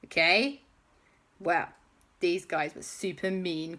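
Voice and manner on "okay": high, loud, urgent appeal; alarmed auntie voice. Acted. Auntie pleading with armed men not to shoot, alarmed high voice. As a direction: raise your voice high to head off trouble.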